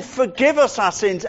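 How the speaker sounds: "us" pushed up high and firm; demanding prayer. Shown as a demonstration. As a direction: press the request on God. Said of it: "demanding of God".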